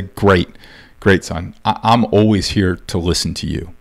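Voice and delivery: mildly soothing, low-pitched fatherly voice; reassuring dad. Acted. Dad promises son he will listen, gently reassuring.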